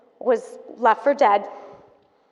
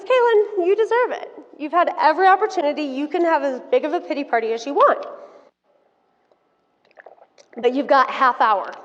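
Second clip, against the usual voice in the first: mom's tough love; 3 semitones higher than usual. Retold or imitated. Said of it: "she goes".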